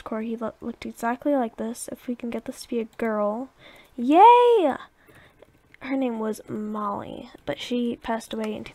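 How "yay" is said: high, loud whoop of joy; big swooping, excited cheer; delighted cheer. Real, not acted. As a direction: cheer as your wish comes true. Celebrates getting a girl dog.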